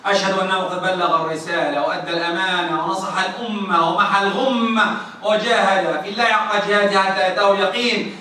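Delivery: fast, measured Arabic sermon opening; khutbah recitation. Acted. Imam opening the sermon to the congregation, formal recitation. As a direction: recite the opening praise briskly.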